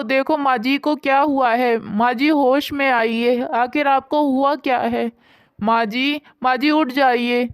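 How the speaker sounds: a daughter-in-law panicking over her fallen mother-in-law; panicked calling. Acted. Finding her mother-in-law collapsed, calling out in panic. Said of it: "Nandini बहुत ज़्यादा घबरा जाती है".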